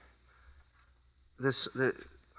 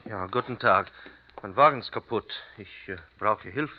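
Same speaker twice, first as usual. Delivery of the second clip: put-on American-accented German. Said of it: "My accent still doesn't fool anyone".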